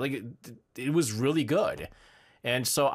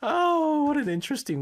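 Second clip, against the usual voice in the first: surprised; 12 semitones higher than usual. Real, not acted. Mock surprise at entry.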